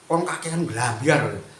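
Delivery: slow, sneering jab, retold lightly; slow jeering "kon kakean blambyar" from an online commenter; mocking commenter. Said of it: "mesti komentarnya itu".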